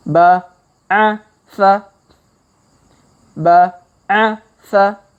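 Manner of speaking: ba, a, sa spaced out syllable by syllable, with long gaps; slow reading. Shown as a demonstration. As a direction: sound each syllable slowly, pausing between them. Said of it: "kita baca pelan-pelan".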